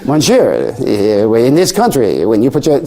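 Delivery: lightly attempted French accent; a failed try at a French man's French accent; retelling a French man's complaint in a barely-there French accent; bad French accent. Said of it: "see, isn't that, that's terrible".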